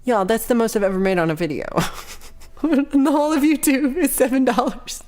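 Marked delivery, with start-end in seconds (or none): 2.6-5.0 excited. Real, not acted. Outraged about seven dollars.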